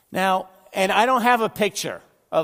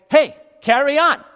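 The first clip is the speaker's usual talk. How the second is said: careless go-ahead; 8 semitones higher, 9 dB louder than usual. Acted. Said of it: "But do you say".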